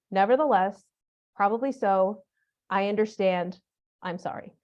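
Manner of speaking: calm, even classroom tone with no edge; neutral, matter-of-fact. Shown as a demonstration. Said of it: "neutral tone, volume, and cadence".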